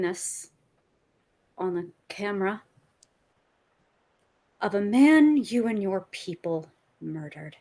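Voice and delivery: low, slow, menacing recorded threat; taunting villain voice; menacing villain message. Acted. In-character villain message to Sonny.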